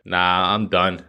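usual speaking voice

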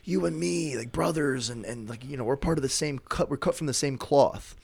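high, wheedling plea for brotherhood; coaxing Dracula. Retold or imitated. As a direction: sweet-talk him like a brother.

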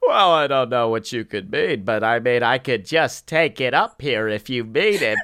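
impression sliding up from a low voice; lightly voiced comedian, still fairly low; John Mulaney. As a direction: start low, then shift it up a few notches. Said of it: "take the pitch on that and shift it up".

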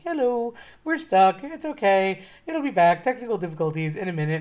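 playful mock Norwegian accent, lightly done; wannabe Norwegian accent. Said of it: "in his little wannabe Norwegian accent".

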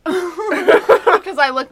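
slow, laughing through it. Real, not acted. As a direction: laugh as you tell it. Laughing retelling needle panic.

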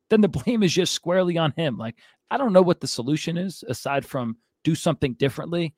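winded from ranting; breathless, gasping between phrases; out of breath. Real, not acted. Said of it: "I'm out of breath".

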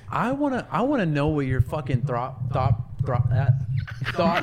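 tripping over the words; stammering, restarting mid-word; stuttering. Real, not acted. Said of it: "Stuttering bitch".

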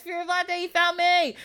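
high, wailed mock panic; acted panic, pitch held high; freaking out. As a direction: cry it out in comic alarm. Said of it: "So she's freaking out".

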